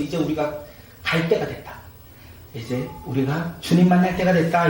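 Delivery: subdued, hesitant voicing of doom; mock resignation. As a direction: play disciples giving up as their end nears. Acting out disciples fearing death.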